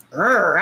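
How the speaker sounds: drawn-out "grr", playfully riled; mock angry growl. Streamer retelling how a show riled her, mock growl. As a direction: growl like you're itching for a fight. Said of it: "I was raring for a fight".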